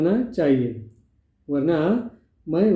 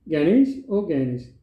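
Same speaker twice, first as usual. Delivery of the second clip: calling out; slower than usual. Acted. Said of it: "Ganesh को आवाज़ देके बुलाती है".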